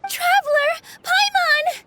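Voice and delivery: delighted shout of recognition; calling out. Acted. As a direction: call out across the meadow. Fairy spots old friends.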